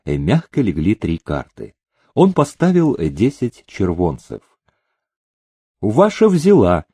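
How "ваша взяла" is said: dealer's voice. A narrator's reading. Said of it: "голос банкомёта".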